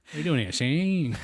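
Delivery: lightly voiced old-time mobster; a hint of a movie gangster; forties mobster. Joking to friends as a forties mobster, lightly put on. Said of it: "like a nineteen forties, like, mobster guy".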